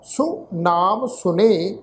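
slow, measured Gurbani reading; drawn-out words with pauses between phrases; scripture recitation. Shown as a demonstration. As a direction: recite the verse slowly, phrase by phrase. Recites scripture verse for a lesson.

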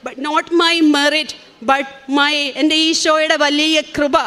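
very slow, every word set apart; slow quoted saying. Retold or imitated. Quoting Father Joseph's saying to listeners, very slow and deliberate. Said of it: "Joseph അച്ഛൻ പറയണ പോലെ".

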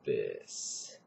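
slow, low and from the chest; grounded chest voice demo. Shown as a demonstration. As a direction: let it boom from the chest. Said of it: "you can make it sound like this".

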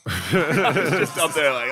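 laughing while telling. Real, not acted. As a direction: chuckle through it.

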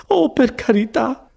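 high, drawn-out exasperated protest; acted exasperation in a high voice; grateful but impatient. A narrator's reading. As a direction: wave the offer away impatiently. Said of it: "quel misto di gratitudine e di impazienza".

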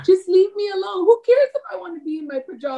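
high, fast, defensive brush-off; fast, high-pitched leave-me-alone retort; defensive snap. Retold or imitated. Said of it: "I'm like".

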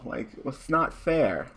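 slow, whining not fair; slow sulky whine; whiny complaint. Real, not acted. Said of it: "wanna cry right now".

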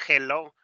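HELLO as "heh-LO", Spanish jota for J; Spanish misreading. Shown as a demonstration. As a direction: read JELLO the Spanish way, stress at the end. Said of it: "Pero en inglés eso se pronuncia".

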